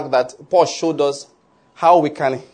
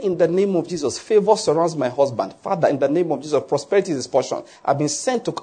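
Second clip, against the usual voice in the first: declaring in prayer. Acted. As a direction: model a wife's prayer over her husband. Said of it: "you are declaring words".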